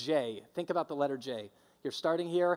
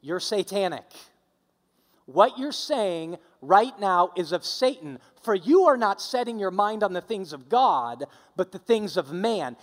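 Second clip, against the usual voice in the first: loud rebuke; 5 dB louder than usual. Retold or imitated. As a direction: rebuke him so the whole group hears. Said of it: "said it in a tone loud enough that they would hear it".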